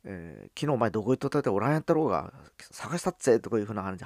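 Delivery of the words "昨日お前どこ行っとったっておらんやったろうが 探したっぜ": brisk Hakata-dialect banter, a touch louder; rough friendly Hakata talk between mates. Retold or imitated. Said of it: "博多弁で".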